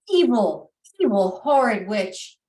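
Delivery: evil punched loud with a touch of venom; spat-out insult. Acted. Elvin cursing the witch who captured him, mildly angry.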